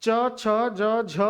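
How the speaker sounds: च, छ, ज drawn out very slowly; slow letter drill; slow recitation. Shown as a demonstration. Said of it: "ये च का अंतिम वर्ण है".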